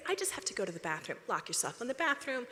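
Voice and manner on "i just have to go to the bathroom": quick excuse. Shown as a demonstration.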